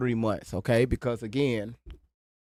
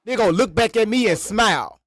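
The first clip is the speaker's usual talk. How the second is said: high mocking imitation; 8 semitones higher, 3 dB louder than usual. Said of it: "quoting the other streamer".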